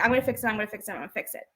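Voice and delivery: repeated line fading away to very quiet; imitated muttering exit. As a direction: let it tail off like someone leaving. Retold man muttering while walking out.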